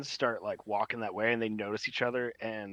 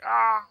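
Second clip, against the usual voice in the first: startled cry; 9 semitones higher, 8 dB louder than usual. Acted. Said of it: "they're just like".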